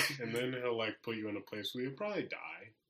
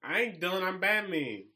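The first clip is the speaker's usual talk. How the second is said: goofy Batman voice; 5 semitones higher, 6 dB louder than usual. Pretend. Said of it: "you gotta cut it out".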